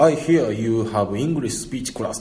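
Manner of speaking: slow, syllable by syllable katakana reading of "I hear you have English speech class". Shown as a demonstration. Teacher showing how Japanese read English in katakana, slowly. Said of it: "全部カタカナ語にしてね".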